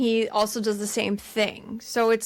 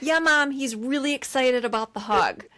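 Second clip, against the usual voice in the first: higher cheery phone voice, settling down; chirpy placating; 4 semitones higher than usual. Retold or imitated. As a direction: imitate a daughter humoring her mom. Imitates Kate placating mom on phone.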